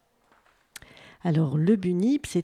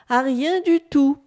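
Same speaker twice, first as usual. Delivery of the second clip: loud, higher, categorical answer; emphatic dismissal; 5 semitones higher, 7 dB louder than usual. A narrator's reading. Man tells bunip they resemble nothing, emphatic. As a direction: stress it as final.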